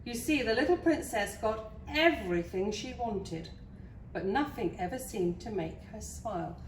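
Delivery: lively storybook narration; story reading. Acted. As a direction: read it to small children with clear emphasis. Reads a picture book to children.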